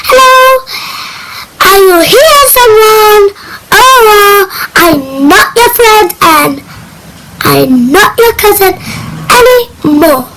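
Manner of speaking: lightly acted mean voice to a caller; rude. Shown as a demonstration. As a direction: snub the caller with a childish pout. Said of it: "Don't talk like that for them".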